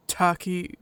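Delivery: very slow, low command; gruff husky Loken. Acted. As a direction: order it slowly and heavily. Voices Loken.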